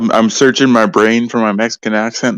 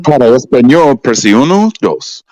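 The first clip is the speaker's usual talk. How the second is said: slow, louder automated menu read; phone menu voice; 2 semitones higher, 5 dB louder, slower than usual. Retold or imitated.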